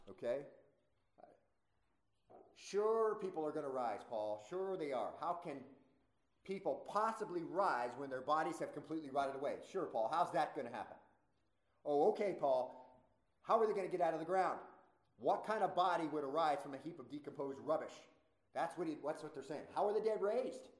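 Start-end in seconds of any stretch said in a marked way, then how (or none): 2.6-17.9 lightly mocking, emphatic disbelief; mocking skeptic. Preacher acts out mockers challenging Paul, lightly sarcastic. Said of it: "Those are the mockers". 19.8-20.7 higher, put-on mocking challenge; mocking question. Preacher quotes doubters asking about mechanics, mocking. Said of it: "that's mockingly asking about the mechanics".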